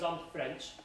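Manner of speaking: put-on a light French accent on I'm French, nasal French vowels. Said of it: "He had a, like, a French accent".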